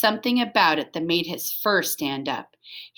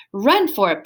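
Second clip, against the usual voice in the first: barked; 4 dB louder than usual. Acted. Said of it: "barked Stanley".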